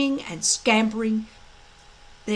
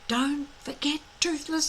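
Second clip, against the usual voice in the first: through gritted teeth; 4 semitones higher, 5 dB quieter than usual. A narrator's reading. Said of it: "through gritted teeth".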